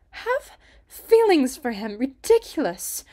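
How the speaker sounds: scoffing at the very idea, loud and drawn out; indignant scoff. A narrator's reading. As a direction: throw the question back in disbelief. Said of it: "Ruby's scoff echoed across the deck".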